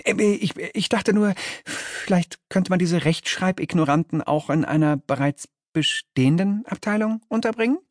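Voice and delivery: nervous voice rising into a question; defensive. A narrator's reading. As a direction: suggest it apologetically, stumbling at first. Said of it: "sagt Fluxus abwehrend".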